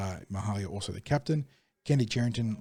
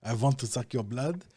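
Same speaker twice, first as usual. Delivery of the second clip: bad vampire voice; 2 semitones higher than usual. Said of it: "really bad".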